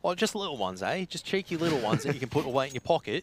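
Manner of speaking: hint of a put-on cheeky voice; lightly voiced, playful impression; Stanley. Caster riffing on his co-caster's little rifles, light impression. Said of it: "Is that your best Stanley impression?".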